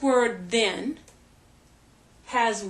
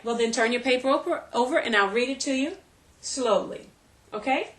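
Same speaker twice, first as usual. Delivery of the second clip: put-on brisk, slightly raised voice of a teacher instructing a child; teacher giving dictation; faster than usual. Shown as a demonstration. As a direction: quickly run through the instructions as if to your son. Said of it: "so that's the demonstration".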